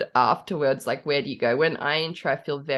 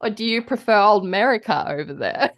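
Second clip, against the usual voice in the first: badly faked American accent, slightly higher; attempted American accent; 4 semitones higher, 3 dB louder, faster than usual. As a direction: try American and slip into Australian. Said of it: "I tried an American accent".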